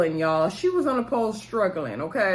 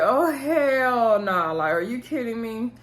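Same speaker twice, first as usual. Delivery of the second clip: disbelief; 4 semitones higher, slower than usual. Retold or imitated. Everybody reacting to Keyshawn's return.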